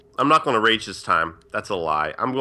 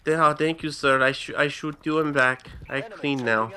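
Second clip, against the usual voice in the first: Hispanic maid voice. Pretend. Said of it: "fucking Hispanic maid voice".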